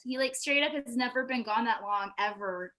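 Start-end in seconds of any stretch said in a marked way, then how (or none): none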